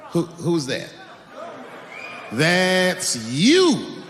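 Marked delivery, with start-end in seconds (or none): none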